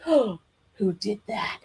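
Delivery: slow drawn-out mock question; slow mock-indignant who; mock outrage. A narrator's reading. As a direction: ham up the injured grown-up. Mock hurt after whack.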